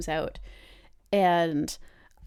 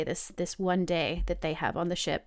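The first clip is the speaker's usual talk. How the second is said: usual speaking voice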